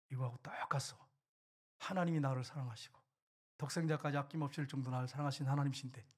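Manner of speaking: low, softened retold reply; quietly confiding, sinking toward a hush; calm general. General explaining to his wife why he is unafraid, calmly.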